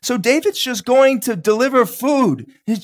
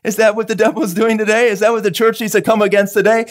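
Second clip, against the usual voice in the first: mock worried churchgoer. Preacher mocking a news-chasing believer, fretful. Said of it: "It's not like".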